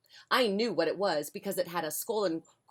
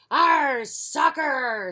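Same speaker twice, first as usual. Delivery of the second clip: loud, much higher cheer; crew shout; 8 semitones higher, 8 dB louder, much slower than usual. Acted. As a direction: shout it back as the whole crew. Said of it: "said everybody".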